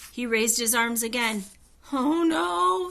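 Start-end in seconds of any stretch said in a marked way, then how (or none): 1.9-2.9 higher, louder sudden dismay; a jolt of fright; alarmed. A narrator's reading. Jack dreading the skunk curse, high and alarmed.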